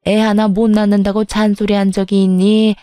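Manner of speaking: grumpy mother-in-law. Acted. Mother-in-law sulking at her daughter-in-law on the phone, grumbling.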